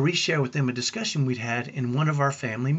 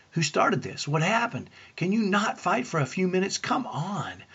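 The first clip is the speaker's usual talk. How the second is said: higher-pitched, mock-frazzled questioning; exasperated parent; 5 semitones higher than usual. Parent sorting out who started the fight, exasperated. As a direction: plead for a break, then give up.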